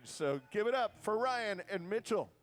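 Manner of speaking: high, drawn-out stage intro; stage announcer. Real, not acted. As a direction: bring the acts on with a lift. Host introducing acts to crowd.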